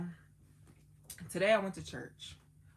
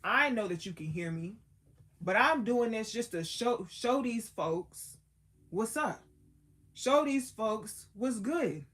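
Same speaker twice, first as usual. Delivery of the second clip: louder, stretching out show these folks; Jesus praying to the Father; 3 semitones higher, 7 dB louder than usual. Retold or imitated. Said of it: "He said".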